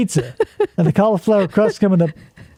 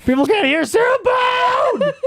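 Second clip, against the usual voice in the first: laughing shout. Real, not acted.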